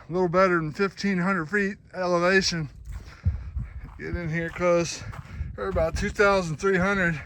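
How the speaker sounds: breathless, panting; winded from the climb; gasping for air. Real, not acted. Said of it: "'cause I'm out of breath".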